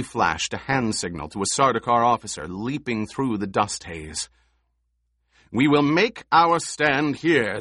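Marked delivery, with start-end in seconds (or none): 5.5-7.6 loud firm command; ordering. Acted. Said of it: "the Emperor ordered".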